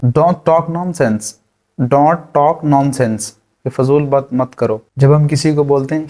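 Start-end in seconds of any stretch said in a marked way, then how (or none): 0.0-1.2 drawn out slowly. Shown as a demonstration. Teacher models the phrase slowly. 1.8-3.3 dragged out slowly. Shown as a demonstration. Teacher drills the phrase very slowly.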